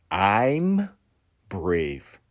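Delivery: a light toothless "I'm brave"; a hint of a toothless cult leader; Monko's voice. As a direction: mumble it like a one-toothed guru. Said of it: "Monko only has one tooth".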